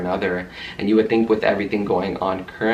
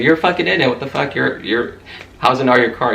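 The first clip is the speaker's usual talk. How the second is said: higher, louder angry retort; heated retort; 5 semitones higher, 4 dB louder than usual. Retold or imitated. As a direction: snap back at her, heated. Retold heated shouting match.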